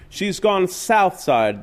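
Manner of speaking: detective moans at the window; moaning. Acted. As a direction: drag it out in despair. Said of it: "the detective moaned".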